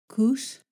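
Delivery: "koos" starting with an airy k; regular K. Shown as a demonstration. Teacher gives a regular K example, aspirated K. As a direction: puff air after the k in "koos". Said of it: "Regular K as in".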